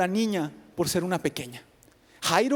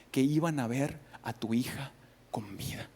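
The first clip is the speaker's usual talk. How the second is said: whispered, much softer; grieving whisper; 7 semitones lower, 7 dB quieter than usual. A narrator's reading. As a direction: let the loss fade into a whisper. Grief at the daughter's death.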